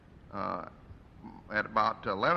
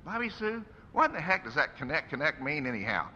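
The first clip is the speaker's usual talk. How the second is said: lightly voiced father, much higher on the name; puzzled father; 3 semitones higher than usual. Father asks his wife about the war hymn, lightly voiced puzzlement. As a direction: ask it with amused puzzlement. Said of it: "and she said".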